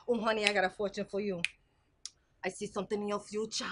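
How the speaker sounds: fast, hushed mystic voice; fortune teller. Acted. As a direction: lean in with a secret. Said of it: "I'm a fortune teller".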